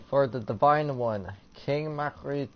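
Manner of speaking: lightly ceremonial reading with finesse; a little finesse. Acted. Player reading a tribute to a king, with a little finesse. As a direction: read it out with some polish. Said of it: "say it with a little finesse".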